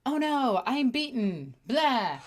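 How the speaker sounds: high, hammed-up dying groan of defeat; mock defeat. Streamer mocking a beaten Guilliman, hammed-up high whine. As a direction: ham up a beaten hero's whine. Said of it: "Guilliman is all like".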